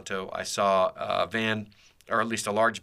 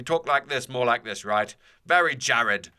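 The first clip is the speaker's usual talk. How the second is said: The speaker; 3 semitones higher, 4 dB louder, slower than usual. Shown as a demonstration. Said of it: "Well, that wasn't his accent".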